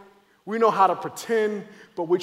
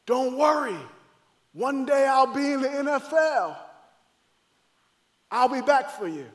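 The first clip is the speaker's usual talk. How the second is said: calling reassurance; 4 semitones higher than usual. Acted. Older brother to the boy pulled from him, urgent reassurance. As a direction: call it out after a child being led away. Calls after brother being taken away.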